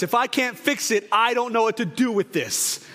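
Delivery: out loud voice. Retold or imitated. Dad to crying teenager he can't fix, mock out-loud voice. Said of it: "I said in my out loud voice".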